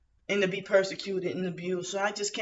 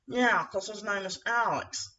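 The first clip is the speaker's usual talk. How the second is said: imitating him. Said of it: "I'm just demonstrating exactly how he said".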